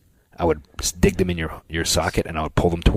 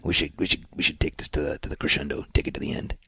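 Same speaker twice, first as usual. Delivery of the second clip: hushed announcer voice; 5 dB quieter than usual. Shown as a demonstration. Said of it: "as long as you quit doing that voice".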